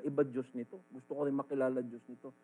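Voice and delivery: amazed onlooker. Acted. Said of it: "sabihin nila".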